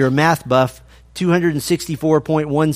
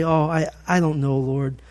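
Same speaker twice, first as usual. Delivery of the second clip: mock hesitant mumble; 5 dB quieter than usual. Imagined unsure reply Bartimaeus didn't give.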